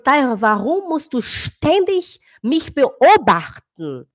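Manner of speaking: slow, drawn-out annoyed father; imitating husband. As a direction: drag out the complaint slowly. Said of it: "ele falou assim".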